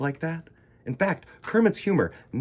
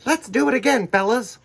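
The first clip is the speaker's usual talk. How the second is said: higher and louder call to the crew; rally the fellas, bright and loud; 12 semitones higher, 7 dB louder than usual. Acted. Puppeteer calls out to the team.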